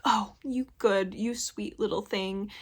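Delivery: a mild imitation of cooing at a little girl; condescending. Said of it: "very condescending".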